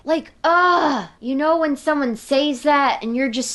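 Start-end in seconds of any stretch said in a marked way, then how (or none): 0.0-1.1 high, loud frustrated groan of disgust; exasperated ugh. Retold or imitated. Telling viewers about the bully, a fed-up ugh. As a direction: let out a fed-up ugh, pitched up.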